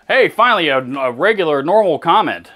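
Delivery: finally a nice one, perk up; pleased surprise. Real, not acted. Relieved by a friendly comment.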